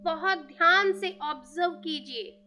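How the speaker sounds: measured meditation voice with long pauses; guided meditation. Real, not acted. Teacher asking listeners to thank each breath, measured guided meditation. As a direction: guide listeners phrase by phrase, leaving space between.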